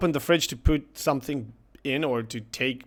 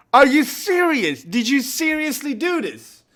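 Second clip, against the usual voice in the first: raised, incredulous questions; playfully outraged; mock disbelief; 9 semitones higher than usual. Husband to wife about the flushed melon, mock disbelief. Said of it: "And I'm like".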